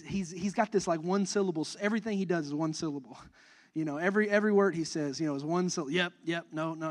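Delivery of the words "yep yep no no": put-on toddler grunts. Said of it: "He kinda grunts".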